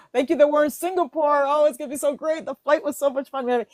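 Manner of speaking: giving thanks. Acted. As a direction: gush thanks as if already there. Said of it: "give thanks".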